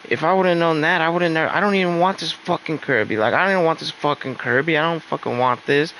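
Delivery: imitating her mad outburst; mock furious rant. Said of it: "she got so mad".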